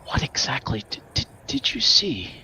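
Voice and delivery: anxious question. Acted. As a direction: press them anxiously. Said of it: "She says".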